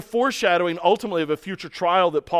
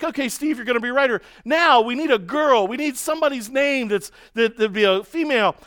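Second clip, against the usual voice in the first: higher, sly teasing voice; mocking the goading teammate; 6 semitones higher than usual. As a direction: bait him with fake innocence. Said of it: "He's like".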